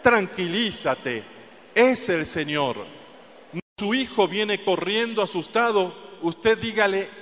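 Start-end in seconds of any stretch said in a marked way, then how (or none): 0.0-2.8 firm, confident command to calm down; firm and assured; with authority. Shown as a demonstration. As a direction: tell them firmly, with authority. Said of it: "Dígaselo con autoridad".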